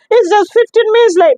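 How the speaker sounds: retold protest. Arguing with clinic staff.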